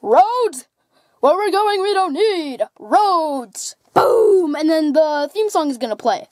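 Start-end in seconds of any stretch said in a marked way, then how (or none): 0.0-3.8 a light Doc Brown delivery, slowing on the last words; Doc Brown movie line. Acted. Doc Brown playing his big scene for Joseph, lightly dramatic. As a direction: deliver it like the movie hero, drawn out. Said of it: "I'm gonna be like this".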